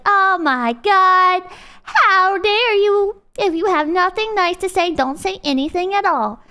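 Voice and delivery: drawn-out, hammed-up indignation; mock outrage. Streamer mimicking people offended by honest opinions, mock outrage. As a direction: stretch out the opening words in mock offense.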